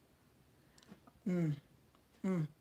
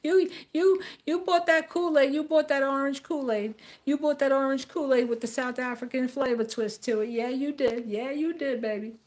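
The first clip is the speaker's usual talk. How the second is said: high-pitched taunting laugh at idiots; mocking foreigners; 5 semitones higher than usual. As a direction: jeer at the gullible Americans, teasing. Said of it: "They're like".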